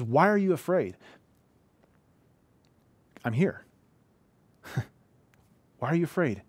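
compassionate Jesus. Retold or imitated. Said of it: "how Jesus wanted his disciples to hear this".

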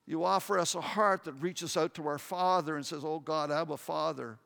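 earnest spoken prayer to God; heartfelt pastor's prayer with music underneath; closing prayer. Acted. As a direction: pray it over the congregation.

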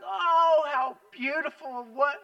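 high, loud gush of delight; hammed-up gushing; cooing over the bear. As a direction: coo like you just spotted a baby animal. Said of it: "and we're like".

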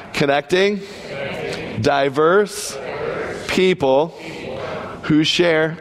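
"Connecting" "diverse" "people" "who share" each set apart by a long pause; one word at a time, a pause after each of "Connecting", "diverse", "people"; over enunciating. Shown as a demonstration. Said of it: "We'll go one word at a time".

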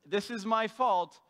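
slow, earnest confession; slow sincere owning of the fault; sincere repentance. Retold or imitated. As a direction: say it slowly like you truly mean it. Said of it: "something more along the lines of".

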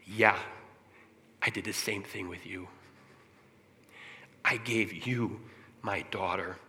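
hushed start, firming slightly midway; God's whisper. Retold or imitated. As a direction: voice God gently confiding, with long pauses. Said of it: "God whispered in my ear".

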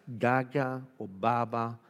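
put-on baby talk. Shown as a demonstration. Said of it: "tengo algunas aquí para comentarles".

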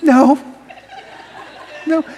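high, sweet refusal; gentle, sing-song turndown; nice no. Shown as a demonstration. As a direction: say no as nicely as possible. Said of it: "You could say it nicely".

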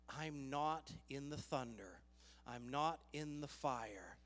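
gently hushed voice of the Lord; quiet divine voice. Acted. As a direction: bring it down low and soft. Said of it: "quietly to you".

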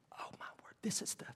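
hushed, breathy whisper of amazement; acted stunned whisper; awed whisper. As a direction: whisper it, stunned by what you see. People astonished at beautiful baby.

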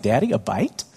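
hint of a high, eager child; lightly voiced begging toddler; son asking again. Son pleading again with daddy, lightly childlike. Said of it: "It's like".

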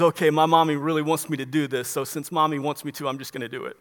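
grudging little-boy whimper, played for mockery. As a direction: give in meekly, fading away as you go. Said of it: "Jesus kinda whimpers away and says".

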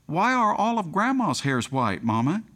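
put-on high-pitched little-girl question; inquisitive child. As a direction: lightly imitate an innocent child asking Mama. Little girl questions her mother back.

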